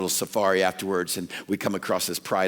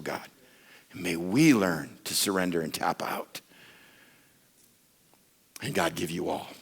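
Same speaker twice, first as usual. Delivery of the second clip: closing prayer. Acted.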